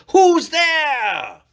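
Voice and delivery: put-on an old man shouting into the dark; frightened cry. A narrator's reading. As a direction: jolt awake and cry out. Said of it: "crying out".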